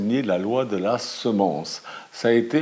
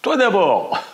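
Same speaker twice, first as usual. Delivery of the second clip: high, louder echoed retort; 11 semitones higher, 7 dB louder, slower than usual. A narrator's reading. The echo mimicking the annoyed girl. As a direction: snap it back like a cheeky echo. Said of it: "l'écho répond".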